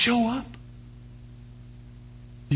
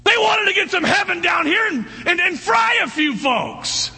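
excited joking; 9 semitones higher, 3 dB louder than usual. Real, not acted. Joking about disciples' zeal.

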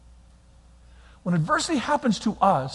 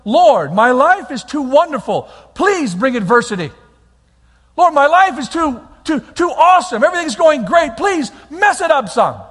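lightly hammed-up prayer, louder; mock prayer; 4 semitones higher, 6 dB louder than usual. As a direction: pretend to beg for trouble. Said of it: "We're not going".

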